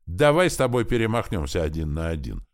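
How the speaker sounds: usual speaking voice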